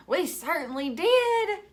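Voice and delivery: high, loud eager reply; kids crying out. Acted. Children answer the teacher, loud and glad. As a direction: shout it gladly like kids. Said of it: "cried all the kids".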